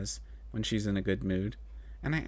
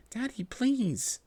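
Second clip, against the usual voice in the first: much higher, very slow plea; whimpering; 11 semitones higher, much slower than usual. Acted. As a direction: whimper it like a scared child. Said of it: "I whimpered".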